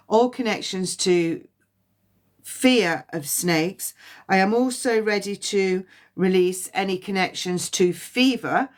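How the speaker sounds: a lightly voiced, measured prayer to the universe; release prayer. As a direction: recite the release like a calm invocation.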